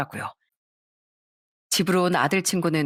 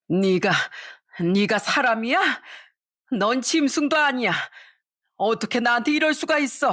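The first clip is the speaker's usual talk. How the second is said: raised, wounded outrage; outraged mother-in-law; 5 semitones higher than usual. Acted. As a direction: call her heartless. (며느리에게 분노하는 시어머니)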